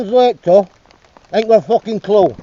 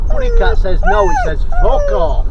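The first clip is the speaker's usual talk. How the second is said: much higher squeaky cat voice; voicing the cat; 14 semitones higher, 4 dB louder than usual. Owner voicing the cat to the dog, high squeak.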